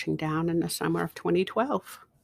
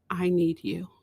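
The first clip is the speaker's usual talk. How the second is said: inner voice whisper. Retold or imitated. Retelling the voice she heard at home, whispered. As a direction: breathe it like a voice from within.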